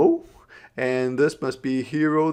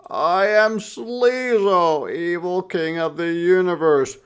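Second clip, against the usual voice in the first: roaring villain; 7 semitones higher, 7 dB louder than usual. A narrator's reading. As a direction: boom it out like a cartoon tyrant. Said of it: "roared or yelled Brother".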